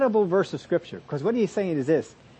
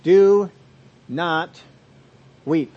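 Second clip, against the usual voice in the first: loud, emphatic "Do not weep"; forceful command; 5 dB louder, much slower than usual. Acted. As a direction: proclaim "Do not weep" as a firm order. Preacher reads the key verse aloud.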